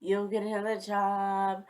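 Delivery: slow, mild reassurance; gently console, drawing the words out; imitated compassion. Imitating the boy comforting her over a lost job, compassionate.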